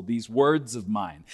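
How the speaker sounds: "these words of mine" said slowly, leaning on "words"; stress on words. Shown as a demonstration. Preacher to congregation, slow stress on "words". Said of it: "That's the emphasis here".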